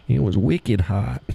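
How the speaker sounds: slow, put-on New England drawl; New Hampshire accent. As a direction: stretch it out like a New Hampshire local.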